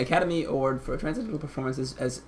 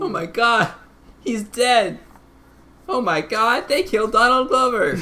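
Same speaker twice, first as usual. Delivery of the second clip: shocked; 7 semitones higher, 6 dB louder, slower than usual. Real, not acted. Reacting to character death.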